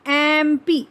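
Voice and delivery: एम पी starting on a held "ae" vowel; lengthened "ae" at the start of एम; opening vowel shown. Shown as a demonstration. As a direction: say एम पी with the first vowel drawn out. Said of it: "क्या आ रही है".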